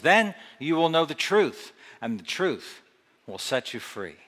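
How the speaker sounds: dramatic Bible reading with voiced speakers; scripture reading. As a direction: read the passage like a story to the congregation. Reads scripture passage aloud.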